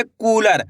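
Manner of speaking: "कूलर" with a long, drawn-out कू; stretched vowel. Shown as a demonstration. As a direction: hold the ऊ in "कूलर". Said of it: "खींच के उच्चारण निकल रहा है".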